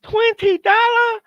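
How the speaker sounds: high, slow, incredulous squeal; outraged disbelief. Acted. Friend shrieks at a twenty dollar tip, outraged. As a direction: stretch it out, appalled at the tip.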